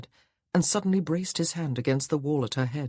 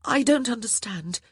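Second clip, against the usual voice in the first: exclamation; 8 semitones higher than usual. Acted. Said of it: "she exclaimed".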